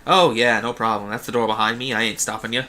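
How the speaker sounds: easygoing, lightly Bostonian jailer; casual hint of Boston; Quark, vaguely Bostonian accent. Bribed guard waving travellers through, vaguely Bostonian. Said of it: "using, like, a vaguely Bostonian accent for him".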